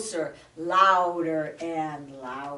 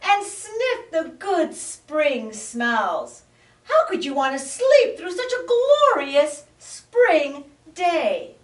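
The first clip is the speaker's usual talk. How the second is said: high, loud, gushing voice; delighted cry; 9 semitones higher, 6 dB louder than usual. Acted. Frog pleads with the bear, delighted cry. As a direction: gush about the flowers. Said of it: "cried the peeper".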